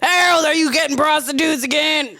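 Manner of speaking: hammed-up shouted accusation; mock accusing wife. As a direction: play the fed-up wife catching her husband. Playing wife Becky accusing Harold.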